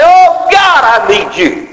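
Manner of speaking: high plea that falls back on the end; crying out. Retold or imitated. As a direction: call out desperately then soften. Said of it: "cry out and say".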